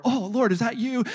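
hammed-up hopeful seeker.

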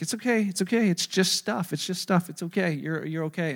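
soft, fading reassurance; gentle reassurance. Retold or imitated. Mother-in-law calmly comforting the pastor, gentle and reassuring. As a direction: soothe him over the broken couch.

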